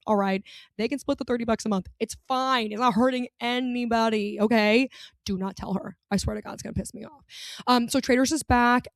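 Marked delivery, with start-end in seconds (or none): 5.2-7.2 soft, quick warning; hushed warning. Real, not acted. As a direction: warn them under your breath. Repeats the secret warning.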